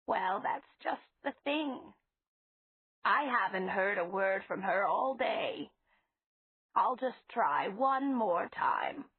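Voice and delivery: a hint of an anxious grandmotherly voice; old lady, fretful. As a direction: gently fret over him like a fond elderly landlady. Mrs Flowers voiced in story.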